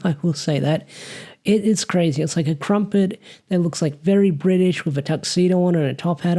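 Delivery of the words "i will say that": amused chuckle then the words; laughing aside. Real, not acted. Vlogger laughing at the crumpet monster's scary face, amused. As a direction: laugh it off lightly.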